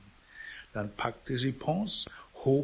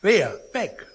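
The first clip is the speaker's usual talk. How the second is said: feigned puzzlement; 7 semitones higher, 6 dB louder than usual. Acted. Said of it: "fragte sie".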